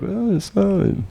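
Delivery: high, slow, sugary put-on "it's fine"; mock passive-aggressive. Hosts to the boys after the beer, mock passive-aggressive. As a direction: drag it out, pretending all is fine.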